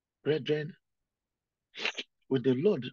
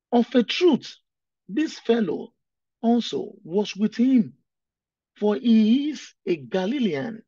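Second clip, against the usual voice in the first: accusing servant; 6 semitones higher, 8 dB louder, slower than usual. Acted. Preacher voices accuser in Peter story.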